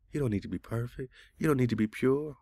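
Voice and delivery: high-pitched mock repeat of a claim; incredulous echo. Man reading the chatbot's claim back, incredulous.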